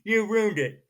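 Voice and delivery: loud, playful accusing cry, then easing off; hammed-up blame at the co-host; mock outrage. Co-host spoils the next question, host cries out in mock outrage.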